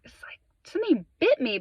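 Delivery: whispered in puzzled alarm; hushed whisper. Retold or imitated. Answering his niece in the truck, hushed startled whisper. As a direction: breathe it out, half-voiced and startled.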